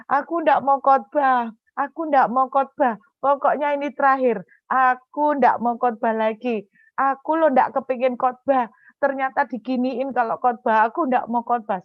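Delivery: mildly hammed-up crying refusal; tearful refusal. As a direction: act out complaining to a spouse in tears. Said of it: "saya nangis lagi sama suami".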